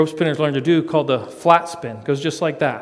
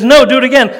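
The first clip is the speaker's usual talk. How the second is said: wife's deadpan reply; 9 semitones higher, 11 dB louder, faster than usual. Retold or imitated. Jenny answers his boast.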